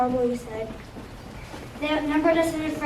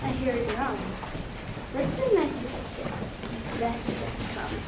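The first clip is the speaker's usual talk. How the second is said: croaking witch; 6 dB quieter than usual. Acted. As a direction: hush the sisters like an old crone. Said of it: "she croaked".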